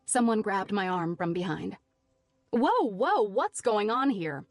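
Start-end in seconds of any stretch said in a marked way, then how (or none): 2.5-4.5 alarmed staff. A narrator's reading. Barista stepping in to stop the fight, alarmed. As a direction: break up the scuffle. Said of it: "one of the staff asked".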